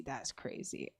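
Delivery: breathy whisper to herself; whispered aside. Real, not acted. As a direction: drop it to a whisper.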